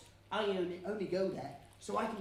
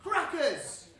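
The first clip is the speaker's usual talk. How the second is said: "Crackers!" called out higher and louder; shouted word; 5 semitones higher, 6 dB louder than usual. Shown as a demonstration. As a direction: show the kids how to yell it. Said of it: "shout as loud as you can".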